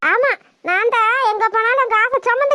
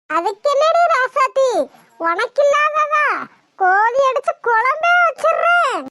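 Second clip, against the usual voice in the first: eager promise. Acted. Grandma promising chicken curry.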